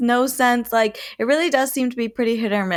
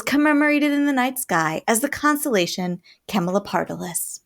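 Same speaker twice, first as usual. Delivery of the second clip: story narration. A narrator's reading. Reads a myth aloud.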